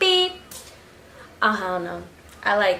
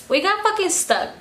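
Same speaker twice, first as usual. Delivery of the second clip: pitched way up in disbelief; exasperated; 11 semitones higher than usual. Retold or imitated. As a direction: disbelief that they're stuck. Reliving getting stuck in mud.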